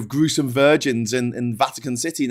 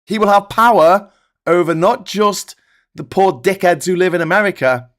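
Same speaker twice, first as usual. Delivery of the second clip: grave loud warning; 4 semitones higher, 4 dB louder than usual. Real, not acted. Warning all viewers about Trump, loud and grave. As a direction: hammer home the danger.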